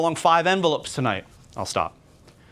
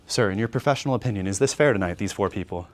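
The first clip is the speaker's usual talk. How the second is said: slowed-down dip; 5 semitones lower than usual. Shown as a demonstration. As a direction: drop the energy to a calm, low ask. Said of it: "and now I slow".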